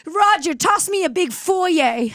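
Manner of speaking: high, theatrical Mid-Atlantic plea; frightened Mid-Atlantic damsel. Acted. Castaway pleading with Roger, hammed-up Mid-Atlantic fright. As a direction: call for rescue in mock panic. Continues castaway's scared pleas.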